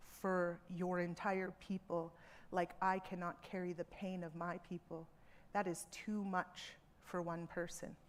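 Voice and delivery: soft, tender, reassuring voice; gentle reassurance. Retold or imitated. Speaker comforting the apologetic woman at her talk, soft and reassuring. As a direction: comfort her softly, like a kind aunt.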